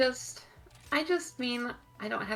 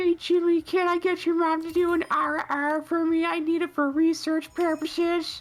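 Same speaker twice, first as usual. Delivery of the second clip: shrill, very high, loud put-on cartoon character voice; 6 semitones higher, 5 dB louder than usual. Reading a requested line after being asked for it: Carl Wheezer voice. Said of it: "the Carl Weezer voice".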